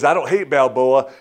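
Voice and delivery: mock tough guy threat; tough boxer voice. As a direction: growl it out like a boxer trash talking. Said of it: "he says".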